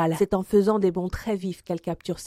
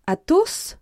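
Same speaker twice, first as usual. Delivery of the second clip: high, rising appeal without shouting; dismay; 9 semitones higher than usual. A narrator's reading. D'Artagnan wringing his hands, dismayed high appeal. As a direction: plead with a friend through his name. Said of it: "en se tordant les mains".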